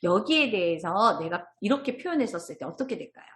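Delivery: ordinary delivery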